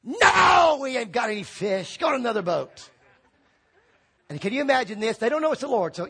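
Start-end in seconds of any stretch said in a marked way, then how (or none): 0.0-2.9 sharp loud "No" then curt; annoyed shout back. Retold or imitated. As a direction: yell back, irritated.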